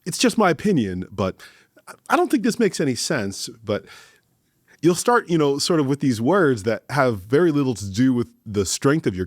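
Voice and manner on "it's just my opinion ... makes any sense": lightly voiced unsure speaker, a touch higher; mock timid hedging. A speaker hedging their opinion to the room, mildly timid. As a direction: hedge it like someone afraid to commit. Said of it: "You'll start off a sentence with".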